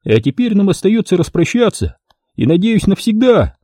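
a lightly voiced shady photographer. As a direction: play the dealer selling his offer. Photographer dismisses her.

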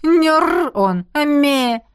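slow teasing drawl; mocking. A narrator's reading. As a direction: tease her, stretching the sounds. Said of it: "усмехнулась она". (насмешливо и медленно)

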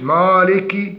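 مالك with a dark, backed long a; heavy alif. Shown as a demonstration. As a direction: round and darken the aa in مالك. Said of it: "تفخيم الألف". (مالك بتفخيم الألف)

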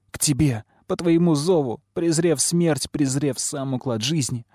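high, tearful reproach; weeping girl's impassioned plea; sobbing lament. A narrator's reading. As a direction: lament accusingly, climbing in pitch. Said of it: "рыдало пламя".

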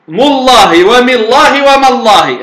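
مالله three times, the م with fatha, then damma, then kasra; تثليث الميم. Shown as a demonstration. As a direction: say مالله with each of the three vowels on the م. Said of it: "بتثليث الميم". (نطق مالله بفتح الميم وضمها وكسرها)

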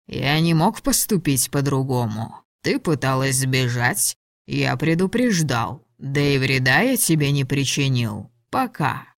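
a hint of the unbothered dragon captor; lightly voiced dragon. Voices the male dragon Ladon.

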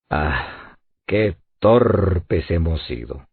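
low, soft and slow, a quiet self-reproach; rueful exclamation, understated. A narrator's reading. Nab realizing the turtle escaped, hushed rueful regret. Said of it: "exclamó Nab".

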